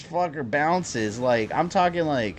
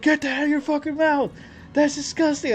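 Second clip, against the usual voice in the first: high, loud disgusted yell; yelling at the dog; 4 dB louder than usual. Retold or imitated. Owner yelling at his pit bull to drop the frog, loud and disgusted. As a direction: bellow it at a dog with a frog in its mouth. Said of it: "start yelling at him".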